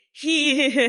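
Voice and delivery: short villain-style cackle, he he he; mocking cackle at a rival; cackling laugh. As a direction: cackle like a cartoon witch queen. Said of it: "I sound like Rita Repua when I laugh".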